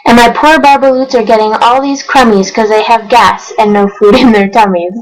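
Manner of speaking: rhythmic read-aloud of rhyming verse; storybook narration. A narrator's reading. Reading Dr. Seuss to viewers, lively storybook narration. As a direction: read it like a bedtime picture book.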